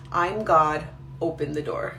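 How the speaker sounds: low, dark demonic voice. Retold or imitated. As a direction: growl it out like an evil spirit. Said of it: "much deeper, darker voice".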